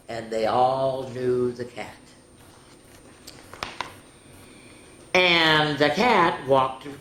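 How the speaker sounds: rhythmic listing that settles into measured narration; picture-book read-aloud. A narrator's reading. Reading the cat book's ending to children, storytelling voice.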